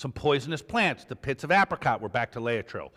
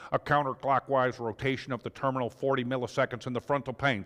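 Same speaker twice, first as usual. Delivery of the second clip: mock pompous reading; 4 semitones lower than usual. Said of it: "And Neiman wrote".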